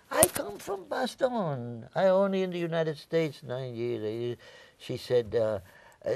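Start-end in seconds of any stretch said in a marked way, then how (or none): 0.1-4.4 high imitation of a Belgian woman; starts very high and drawn out, then settles; accented Belgian woman. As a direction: play the amazed Belgian shopkeeper. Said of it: "had a, an accent when she spoke".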